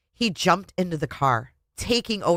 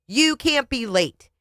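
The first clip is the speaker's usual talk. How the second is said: an angry husband's raised scolding; yelled; 6 semitones higher than usual. Acted. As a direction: drive home each word. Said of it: "he yelled".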